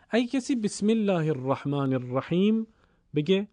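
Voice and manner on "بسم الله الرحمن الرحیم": "الرحمن الرحیم" with each r doubled and rolled; correct doubled r. Shown as a demonstration. Teacher giving the phrase to be read, emphatic doubled ر in "الرحمن الرحیم". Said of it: "چون حرف را اولش تشدید داره".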